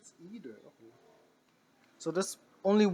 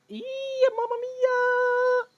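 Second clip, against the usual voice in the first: put-on Italian accent; 6 dB louder, much slower than usual. Exaggerated Italian exclamation.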